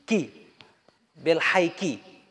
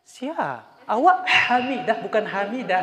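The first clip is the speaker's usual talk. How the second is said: mock puzzled reply; 4 semitones higher than usual. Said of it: "pura-pura nggak dengar aja".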